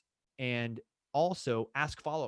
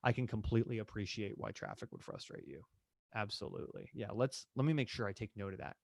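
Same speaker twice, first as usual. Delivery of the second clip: softer, understanding reply; empathetic agent; 4 dB quieter than usual. Shown as a demonstration. Agent empathizing with an annoyed client, softer. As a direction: soothe them with understanding. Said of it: "use empathy language".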